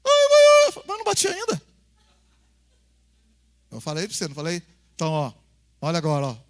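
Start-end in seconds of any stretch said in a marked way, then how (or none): 0.0-1.6 put-on very high, very loud child's wail; shrieking child. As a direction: shriek like a kid dreading the spanking. Filho grita antes da palmada. (criança gritando agudo e alto)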